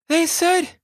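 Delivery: breathless, high; gasped. A narrator's reading. Girl after sprinting down the pier, gasping. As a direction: gasp it out of breath. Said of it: "she gasped".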